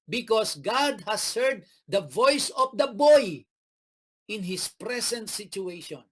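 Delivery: measured Bible reading; steady scripture read. Acted. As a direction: read the angel's words to the congregation. Preacher reads scripture aloud.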